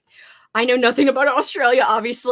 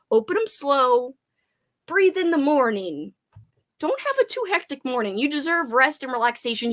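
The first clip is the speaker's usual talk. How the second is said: parental gentle advice; 2 semitones higher than usual. Real, not acted. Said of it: "acting like a parent".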